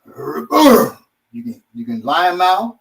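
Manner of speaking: lightly put-on Florida accent; a slight Florida accent slipping into the words. Florida accent while teaching the lion mouth strike. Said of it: "Obaki don't talk like he just did".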